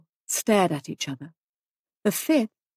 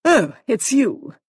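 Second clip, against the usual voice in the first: slow, slightly higher relieved greeting; 4 semitones higher, 6 dB louder, slower than usual. A narrator's reading. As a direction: let relief draw out the words. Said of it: "she said with relief".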